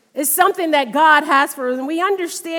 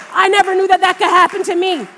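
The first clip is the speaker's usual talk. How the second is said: retold son's awed excitement, louder; excited son; 3 semitones higher, 4 dB louder, faster than usual. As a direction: push it up loud with wonder. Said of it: "he's just like".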